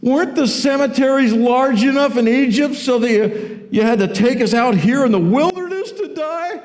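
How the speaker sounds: high-pitched, indignant whining rant; hammed-up sarcasm, pitched high and pleading; sarcastic complaining. Israelites blaming Moses in the wilderness, sarcastic complaint. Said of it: "the sarcasm is great".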